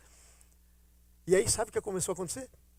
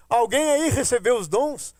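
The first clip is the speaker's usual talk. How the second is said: calling out; 5 dB louder than usual. Retold or imitated. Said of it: "Voltei e disse".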